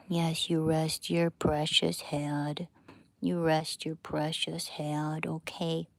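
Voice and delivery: slow hushed cooing; gentle doting murmur. Real, not acted. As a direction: soothe the sleepy dog. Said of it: "loves it when I talk like that".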